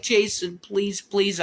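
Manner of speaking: high mock-pleading girlfriend voice; imitating her pleading. Retelling her morning begging, high imitated pleading. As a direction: plead up high like she did, lightly. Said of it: "she was like".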